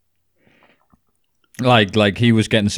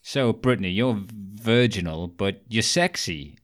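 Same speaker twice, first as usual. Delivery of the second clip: mock press interviewer. Faceless press asking a teen singer a creepy question, mock interviewer. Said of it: "faceless press people going".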